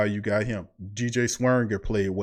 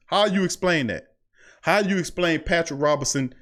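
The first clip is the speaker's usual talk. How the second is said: emphatic repeat; 5 semitones higher than usual. Shown as a demonstration. Podcast host presses listeners again, emphatic. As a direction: hit the repeat harder to drive it home. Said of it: "repeats it to build".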